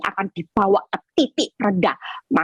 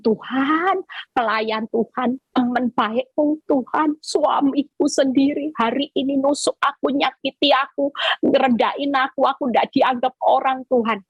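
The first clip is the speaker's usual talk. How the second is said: higher, pleading lament prayer; crying out to God; 4 semitones higher than usual. Pretend. Preacher modelling a wounded believer's prayer, pleading lament. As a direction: pour out the hurt to God. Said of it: "teriak sama Tuhan".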